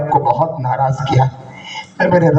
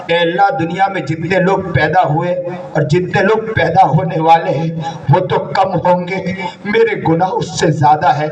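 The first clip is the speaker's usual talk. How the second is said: tearful prayer. Retold or imitated. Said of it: "روتے جا رہا تھا".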